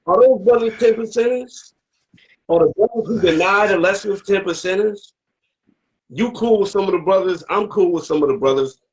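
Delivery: high-pitched, insistent questioning; real hardcore challenge. Real, not acted. Asking the brothers a hardcore question, high and insistent.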